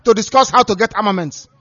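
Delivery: calling out in mockery for Biafrans; mock shout. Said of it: "start shouting".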